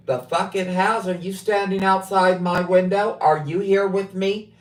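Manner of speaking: mock-outraged driver snapping at dispatch; retold angry comeback. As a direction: fire it back like you can't believe his nerve. Retold angry reply to night dispatch.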